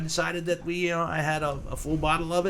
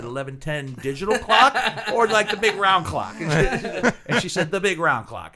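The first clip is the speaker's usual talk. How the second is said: laughing while quoting; 4 semitones higher, 5 dB louder than usual. Retold or imitated. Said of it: "and I said".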